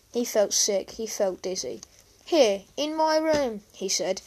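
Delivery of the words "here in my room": high, loud, drawn-out disbelief; aghast little brother's protest; appalled. Acted. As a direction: draw out the outraged question. Boy appalled at news.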